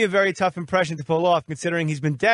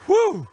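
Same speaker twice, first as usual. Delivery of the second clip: loud high relieved whew; exaggerated whew; high whistling whew; 13 semitones higher, 4 dB louder than usual. Real, not acted. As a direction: let out a big relieved whew. Host exhales after call.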